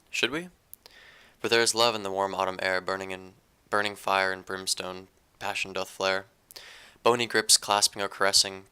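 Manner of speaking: steady, deliberate poetry reading; poem recitation. Acted. Reads own poem aloud.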